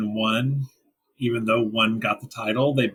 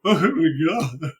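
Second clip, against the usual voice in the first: laughing disbelief; 4 semitones higher, slower than usual. Retold or imitated. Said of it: "I was just like".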